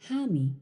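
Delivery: hami said as one word, falling; teacher shows the stressed verb hami. Shown as a demonstration. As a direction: put the weight on hami. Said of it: "You can hear the emphasis shift".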